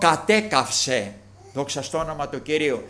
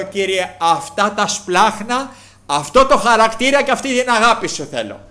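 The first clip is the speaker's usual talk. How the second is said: fervent prayer; 4 semitones higher, 5 dB louder than usual. Real, not acted. Fervent prayer quoted in sermon.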